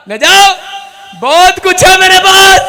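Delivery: loud, triumphant boast; defiant shout. Retold or imitated. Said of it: "मैंने कहा".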